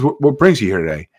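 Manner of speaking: imitating a sweet, congenial front-desk greeting; sweetly asking the patient what brings him in; congenial receptionist. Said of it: "in such a congenial tone".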